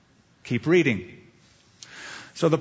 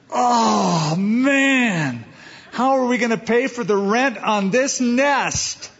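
worried bird; 6 semitones higher, slower than usual. Pretend. Preacher voicing a fretting bird to the congregation, high and wailing. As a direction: play a bird panicking about rent.

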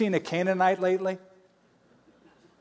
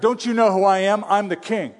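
higher, louder, imitating an offended king; mock indignant king; 3 semitones higher, 5 dB louder than usual. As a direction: puff up as the insulted king. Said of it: "got upset, like".

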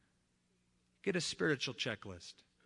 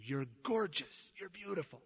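tender; 2 semitones higher, 3 dB quieter than usual. Shown as a demonstration. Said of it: "that the man tells the woman".

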